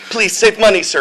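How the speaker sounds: high, loud dying plea; dying demon general. Acted. Dying general pleading with his master, high mock plea. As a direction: beg with hammed-up last breath. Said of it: "he's dying".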